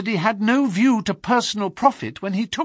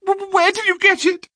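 much higher, stammering, stricken voice; groaning in dismay; 14 semitones higher, 4 dB louder than usual. A narrator's reading. Prisoner shown the bloodstained notebook, stammering stricken groan. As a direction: caught out, the words break from him. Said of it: "he groaned".

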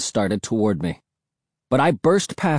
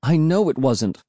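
higher-pitched stubborn protest; mildly raised, obstinate cry; stubborn insistence; 4 semitones higher than usual. Acted. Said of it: "I cried stubbornly".

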